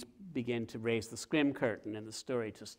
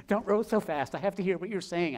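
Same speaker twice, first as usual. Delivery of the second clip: louder, higher urgent call; calling after someone; 7 semitones higher, 7 dB louder than usual. Acted. Author following the rower in a little boat, urgent calling out. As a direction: call out as if across water.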